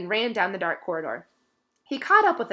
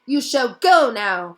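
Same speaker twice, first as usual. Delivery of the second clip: louder, slow, firm elf command; fierce elf; 4 semitones higher, 9 dB louder, slower than usual. A narrator's reading. Dobby fiercely orders Malfoy away. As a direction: lay down the law. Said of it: "he said fiercely".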